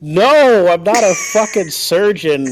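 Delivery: laughing shout. Real, not acted. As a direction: shout it out while cracking up. Indignant laughing retort to teasing.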